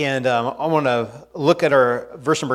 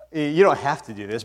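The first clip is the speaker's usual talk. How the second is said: ordinary talk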